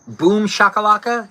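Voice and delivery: playful cat noise; mock cat call. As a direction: squeal Boom shakalaka like a silly cat. Mock cat sound echoed.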